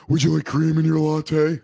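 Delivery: high, put-on barista voice; chirpy service-counter impression; imitating a barista asking politely; mock barista voice. Barista voice in Starbucks bit.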